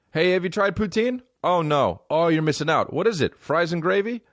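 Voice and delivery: high-pitched back-and-forth imitation; mock enthusiasm. People urging him to try poutine, mock enthusiasm. Acted exchange about trying poutine.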